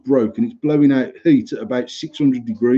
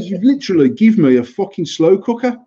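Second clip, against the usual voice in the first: higher, indignant mock rant; retold angry complaint; 5 semitones higher than usual. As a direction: re-enact an outraged customer kicking off. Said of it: "I was kicking off in there bad".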